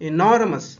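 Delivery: ఎనార్మస్ said with marked stress; stress demo. Shown as a demonstration. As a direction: say ఎనార్మస్ with a clear stressed beat. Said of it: "ఎన్ మీద stress అండి".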